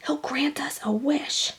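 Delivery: hushed unvoiced whisper. A narrator's reading. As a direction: whisper the secret plan. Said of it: "whispered Kevin".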